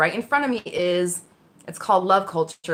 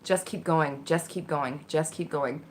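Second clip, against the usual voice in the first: driving inner voice; 3 semitones lower, 6 dB quieter, slower than usual. Retold or imitated. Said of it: "this other voice going".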